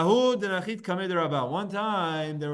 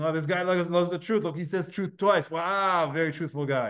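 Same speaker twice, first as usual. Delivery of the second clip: sarcastic. Retold or imitated. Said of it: "it's like almost like sarcastic".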